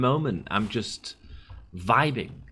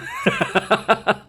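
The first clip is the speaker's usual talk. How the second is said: high, loud laugh at own joke; high burst of laughter; 12 semitones higher, 4 dB louder than usual. Real, not acted. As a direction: crack up laughing. Laughing after own quote.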